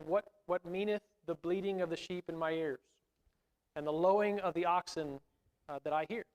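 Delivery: a hint of a British accent. Preacher quoting Samuel to the class, slight British accent. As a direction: lightly slip into a British accent. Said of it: "try not to say it with a British accent".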